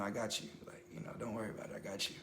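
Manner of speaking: retold gentle reassurance, low and hushed; soft reassurance. God comforting the frightened young man, softly reassuring.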